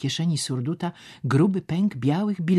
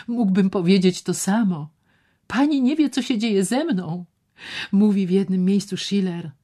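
higher and louder, bitter; voiced brooding man; 9 semitones higher, 5 dB louder than usual. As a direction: quote Schiller at her pointedly. Szczerbic quoting Schiller.

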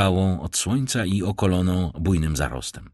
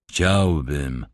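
mumbled; 3 semitones lower than usual. Acted. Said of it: "mruknął człowiek w czerwonej chustce".

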